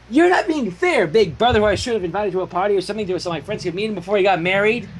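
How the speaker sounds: high, precise mock diction; imitating Twilight. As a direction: play prim Twilight through a doll. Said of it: "In imitation of Twilight's precise diction".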